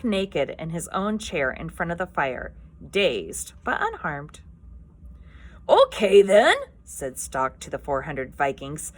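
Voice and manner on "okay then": loud, nervous burst of bluster; scared but overexcited. Acted. Stoick to his four hundred Vikings, scared but overexcited. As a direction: chief blurting it out, scared and overexcited. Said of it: "suddenly looking scared but wildly overexcited".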